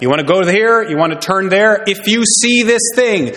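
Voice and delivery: a hint of a fussy gas station attendant; gas station man giving directions. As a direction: mimic a rambling helper pointing the way. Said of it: "It sounded like this".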